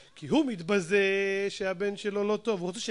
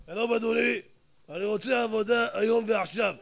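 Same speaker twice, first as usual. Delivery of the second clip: curt, entitled demand in the usual pitch; demanding greeting. Retold or imitated. Rude man demands a job from the board, curt. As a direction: insist like you are owed the job. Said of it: "תאר לך שיבוא לדירקטוריון ככה".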